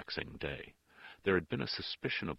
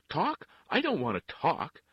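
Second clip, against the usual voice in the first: high, loud, agitated outburst; loud protest; 13 semitones higher, 10 dB louder than usual. A narrator's reading. Father refuses the nun's talk, loudly protesting. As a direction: throw the word back in a raised voice. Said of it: "he said in a loud voice".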